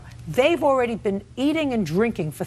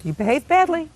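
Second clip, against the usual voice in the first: louder and higher, each word hammered; stern raised scolding; 6 semitones higher, 5 dB louder than usual. Real, not acted. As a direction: scold her hard, voice rising. Judge scolds plaintiff, louder.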